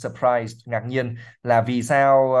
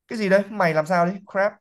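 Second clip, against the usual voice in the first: snapping; 7 semitones higher, faster than usual. Acted. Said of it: "Snap Malfoy".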